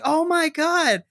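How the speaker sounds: high, stunned exclamation; mock gasp of disbelief; imitated shock. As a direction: act out the crowd's disbelief. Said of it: "and then is like".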